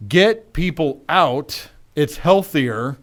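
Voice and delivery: slow, spaced-out emphatic read-aloud; emphatic exclamation. Retold or imitated. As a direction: read each phrase slowly for emphasis. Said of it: "Two exclamation marks".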